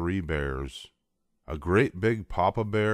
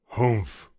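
gruff humph; a big bear's grunt; a hint of papa bear's huff; 4 semitones higher than usual. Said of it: "said the papa bear in his great big voice".

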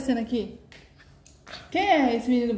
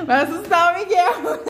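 loud warning; 5 semitones higher, 4 dB louder than usual. Real, not acted. Mother warns her son not to frighten the baby, loudly. Scolding the child's loud noise.

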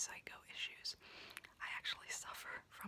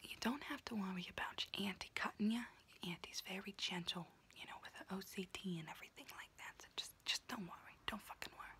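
whispering auntie roleplay. Acted. Auntie whispering to her niece while doing her nails, in a confiding unvoiced whisper. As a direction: whisper close and chatty like a kooky aunt doing your nails.

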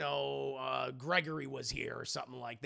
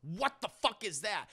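slightly raised mock alarm; freaking out; 4 semitones higher than usual. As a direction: react in startled outrage. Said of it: "He freaks out".

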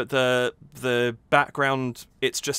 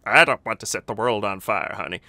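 deadpan; 4 semitones lower than usual. Retold or imitated. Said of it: "the deadpan delivery".

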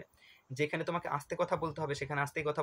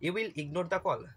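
slow option read; 2 semitones higher, much slower than usual. Shown as a demonstration. Reading exam option aloud.

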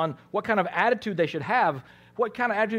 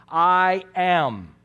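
commanding declaration; 6 dB louder than usual. Acted. Quoting Jesus' divine answer.

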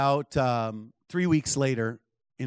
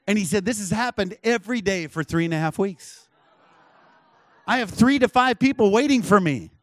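raised, building imitation of an astonished salesman; retold amazement; 6 semitones higher, 5 dB louder than usual. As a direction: build higher and louder with each claim. Retold husband marvels at sales.

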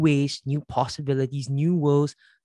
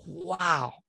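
hushed wow; 6 dB quieter than usual. Retold or imitated. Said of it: "And I go".

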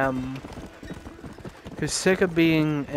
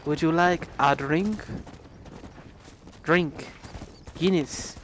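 lightly mocked Tipperary barman; 5 dB quieter than usual. Barman offering the newcomer a drink, light mock Tipperary accent. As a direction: put on a slight Tipperary accent. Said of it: "I think it was a Tipperary voice".

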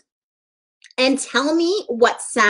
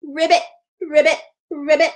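frog croak; 4 semitones higher than usual. Pretend. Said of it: "The frog says".

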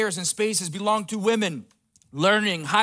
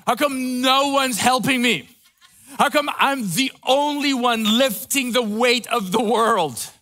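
half-laughing, hammed-up self-pity; playfully whining about carrying everything; mock overwhelmed complaint; 4 semitones higher, 4 dB louder than usual. Preacher voicing weary women complaining, half laughing. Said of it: "have you ever felt like".

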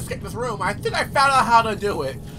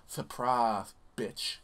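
mock taunt; 9 semitones lower, 8 dB quieter, much slower than usual. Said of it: "I'm gonna be like".

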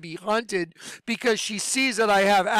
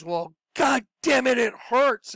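imitating a pained, higher-pitched outburst; mock yell at the doctor, pitched up; retold yell; 5 semitones higher than usual. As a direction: act out someone snapping that it hurts. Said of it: "she yelled at the doctor".

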